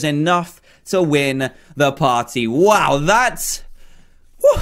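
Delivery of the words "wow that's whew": breathless after cheering; out of breath. Real, not acted. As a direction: puff it out, breathless. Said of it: "I'm out of breath".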